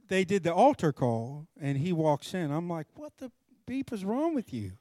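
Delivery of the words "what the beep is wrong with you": exasperated outburst. Retold or imitated. Angry quote at late friend.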